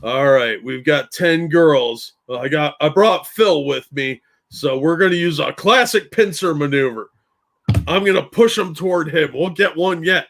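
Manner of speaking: lightly voiced wildlife host, badly faked Australian; Crocodile Hunter. Wildlife host planning a pincer on a flock of girls, half-hearted fake Australian. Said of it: "I can't do an Australian accent".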